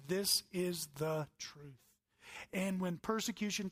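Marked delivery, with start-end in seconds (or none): 0.1-1.8 slow, each word of This is the truth set down firmly; slow firm declaration. Pretend. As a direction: state it slow and unshakable. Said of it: "We must stand strong and say".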